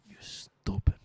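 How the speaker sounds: dad's halting English. Retold or imitated. Son retelling dad's verdict on quitting soccer, halting English. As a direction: imitate a dad struggling through English, word by word. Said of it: "My dad can't express himself well in English".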